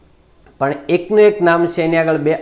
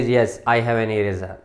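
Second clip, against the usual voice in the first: speaker B's answer, slow and a bit softer; slow dialogue reply; 4 semitones lower, 4 dB quieter, much slower than usual. Shown as a demonstration. Teacher voices speaker B's slow reply for the students. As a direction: read the reply word by word. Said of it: "B says".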